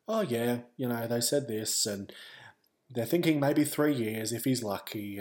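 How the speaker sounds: casually relayed news, imitating mum; matter-of-fact. Mum relaying prognosis by phone, matter-of-fact. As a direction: pass it on as routine information. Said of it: "everything was so matter of fact".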